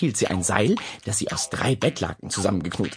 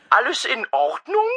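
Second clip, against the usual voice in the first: worried neighbour; 13 semitones higher than usual. Acted. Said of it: "besorgte Stimme".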